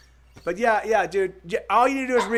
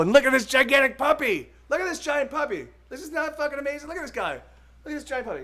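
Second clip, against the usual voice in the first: excited; 6 semitones higher, faster than usual. Real, not acted. Delighted by a huge dog.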